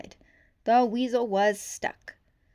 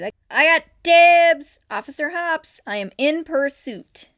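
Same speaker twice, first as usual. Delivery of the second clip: put-on young cop shouting dibs; eager shout; 8 semitones higher, 13 dB louder than usual. A narrator's reading. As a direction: shout it as you launch into pursuit. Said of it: "and shouted".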